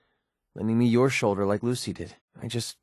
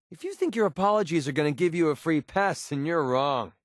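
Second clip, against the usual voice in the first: higher-pitched, annoyed warning; indignant rebuff; 5 semitones higher than usual. Acted. Rejecting a companion's apologies, indignant. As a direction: shut the apology down.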